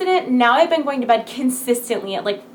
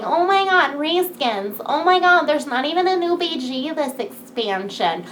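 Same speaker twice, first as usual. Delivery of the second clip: mocking whiny gamers; 3 semitones higher than usual. Streamer mocks angry gamers' complaints, a hammed-up whine fading out. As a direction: parody the complainers, then let it die away. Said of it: "people are gonna be like".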